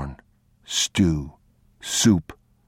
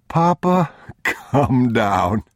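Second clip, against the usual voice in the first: put-on high, louder child's call; young boy; 7 semitones higher, 4 dB louder, much slower than usual. A narrator's reading. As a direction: call out like an eager little boy. Boy voiced by narrator.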